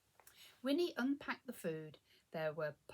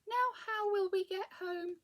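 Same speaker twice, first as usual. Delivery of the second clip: high-pitched, raised voice of dismay; dismayed shout; 8 semitones higher, 4 dB louder than usual. A narrator's reading. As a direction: call out in alarm as a stranded witch. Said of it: "shouted Winnie".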